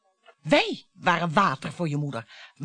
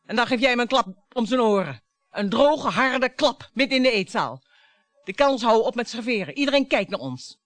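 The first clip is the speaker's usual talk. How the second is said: heated retelling; 2 semitones higher, 6 dB louder than usual. Acted. Wife relives the slap, voice rising.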